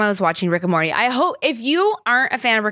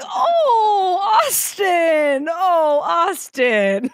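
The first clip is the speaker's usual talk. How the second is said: high, laughing "oh Austin"; laughing sympathy; 10 semitones higher, much slower than usual. Real, not acted. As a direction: coo his name while laughing. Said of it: "trying, like, not to laugh".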